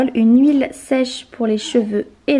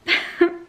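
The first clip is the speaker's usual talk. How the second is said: breathy laugh; 7 semitones higher than usual. Real, not acted. Laughs at her own plea.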